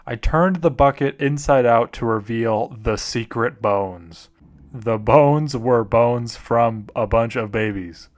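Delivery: subdued, deliberate horror read; slow down on the grim reveal; mock-serious scary story narration. Reads a horror story aloud.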